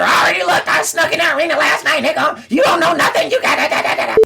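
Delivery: know-it-all Twitter guy. Retold or imitated. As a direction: brag like a know-it-all fan online, high-pitched. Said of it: "I'm sure somebody on Twitter".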